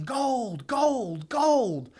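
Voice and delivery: high, loud, rising mock shout of gold; excited yelling. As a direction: yell it through the street like a prospector who struck it rich. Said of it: "And he's yelling".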